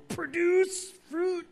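high, slow, strained squeal of a tree; mock straining tree. Preacher mocks trees forcing fruit, strained high squeal. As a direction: squeeze the words out like a straining tree.

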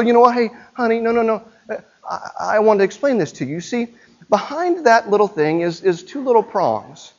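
put-on sweetly over-explain to a toddler; mock gentle explaining. Parent gently explaining the outlet to child, mock soft. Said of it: "You could walk up to your child and go".

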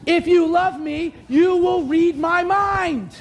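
slow, drawn-out mock English accent. Mock partner insisting on mind reading, slow English accent. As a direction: stretch it out in a put-on English accent. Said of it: "I'm using the English accent".

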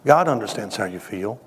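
low-key, confiding tone; intimate. Real, not acted. Preacher consoling the grieving congregation, intimately. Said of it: "say this to you very intimately".

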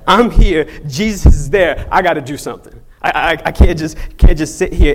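loud, punched, stumbling over the words; acted urgent resolve. Blind man refuses to let the moment pass, loud and determined. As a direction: act out someone who has to act now. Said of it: "not al-, about to let this moment pass".

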